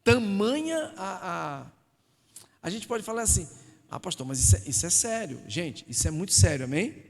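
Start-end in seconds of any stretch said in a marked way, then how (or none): 3.9-7.0 louder, pressing the point; loud preaching. Real, not acted. Preacher to congregation, loud and insistent. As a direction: preach it hard to the crowd.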